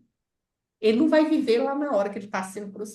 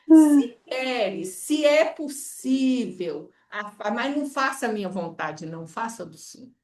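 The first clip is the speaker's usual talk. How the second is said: humble plea. Shown as a demonstration. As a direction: let the will bend, slowing and softening. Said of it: "Ele fala".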